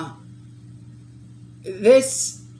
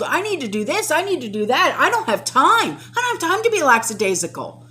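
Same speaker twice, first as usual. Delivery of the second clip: panicked rush; 3 semitones higher, 3 dB louder than usual. Pretend. Imagined panicked self-talk.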